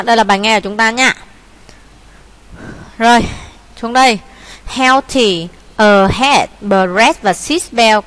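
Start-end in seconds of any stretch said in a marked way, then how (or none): 4.7-8.1 reading out example words for their vowels; minh họa phát âm. Shown as a demonstration. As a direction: slowly sound out each word's vowel. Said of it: "trong mấy cái đọc là E". (đọc mẫu nguyên âm từng từ)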